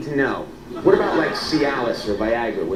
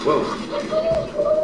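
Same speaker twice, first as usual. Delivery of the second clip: surprised. Real, not acted. Dog startles him.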